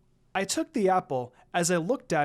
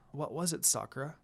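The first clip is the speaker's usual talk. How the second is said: softer, hushed question; whispered back; 3 semitones lower, 8 dB quieter than usual. A narrator's reading. Lucy whispering back to Sakura on the boat, hushed. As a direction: ask it under your breath. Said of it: "I whispered back".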